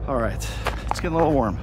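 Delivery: out of breath from the climb; puffing between words; heavy breathing. Real, not acted. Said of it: "Pardon my breathing".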